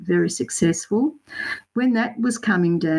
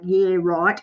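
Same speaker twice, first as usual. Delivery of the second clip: a hint of a broad Aussie accent, sceptical; Australian accent. Retelling her reply to Dean, a touch of broad Australian accent. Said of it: "in my best Australian accent".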